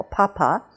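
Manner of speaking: "papa" with aspirated Ps; puffed English P. Shown as a demonstration. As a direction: demonstrate "papa" with a burst of air. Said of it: "there's a big puff of air".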